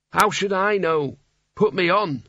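a hint of an otherworldly talking hat. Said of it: "When the hat spoke".

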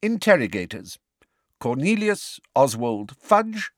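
high-pitched, formal proclamation; ringing voice. A narrator's reading. Fudge announcing the charge and interrogators, ringing voice. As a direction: read out the charge and names ringingly. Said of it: "said Fudge in a ringing voice".

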